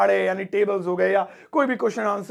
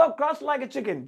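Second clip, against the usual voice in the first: slow model phrase; 4 semitones higher, much slower than usual. Shown as a demonstration. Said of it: "teaching the phrase".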